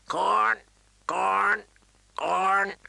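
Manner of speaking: repeated high, loud bird squawks; raven shriek. Acted. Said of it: "the bird shrieked".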